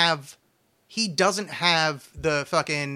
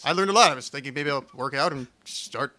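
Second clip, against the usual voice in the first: badly faked, unplaceable foreign accent; mock foreign accent, country unclear; vague foreign accent. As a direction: attempt a Russian accent and miss. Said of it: "that was an accent that sounded like something".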